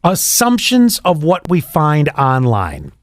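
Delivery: assumptions said slowly and deliberately; slow, weighted delivery on assumptions of what we find online; deliberate emphasis. Shown as a demonstration. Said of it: "listen to the way I say this".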